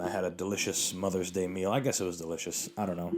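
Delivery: talking through hiccups; hiccuping. Real, not acted. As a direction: hiccups breaking the words. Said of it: "guys, I'm hiccuping".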